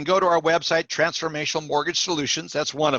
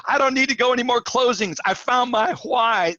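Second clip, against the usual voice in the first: retold excitement; 6 semitones higher than usual. Michael calls after moving closing.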